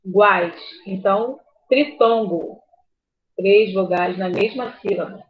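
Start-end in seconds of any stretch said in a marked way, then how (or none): none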